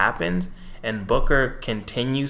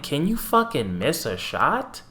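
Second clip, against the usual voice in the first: exasperated plea; 4 semitones higher than usual. Retold or imitated. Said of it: "I'm like".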